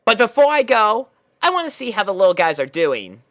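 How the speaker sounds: high, brash tomboy pony voice, pitched well up; a cocky young pony defending herself; Rainbow Dash voice. Acted. Rainbow Dash explains the puppies to Twilight, high and brash.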